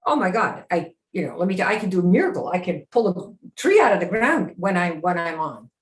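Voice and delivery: quick, self-assured boast; confident miracle-worker. Shown as a demonstration. Coach demos the confident Hercules take, mild swagger. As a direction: talk like nothing is beyond you. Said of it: "if you're supposed to be the character".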